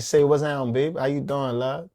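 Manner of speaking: easy Louisiana-accented sweet talk. Shown as a demonstration. Showing off his accent to the co-host, Louisiana accent. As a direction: put on a light Louisiana accent. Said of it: "put my Louisiana accent on".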